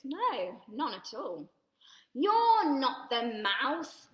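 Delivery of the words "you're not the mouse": slow disappointment. Acted. Gruffalo's child to snake, slow.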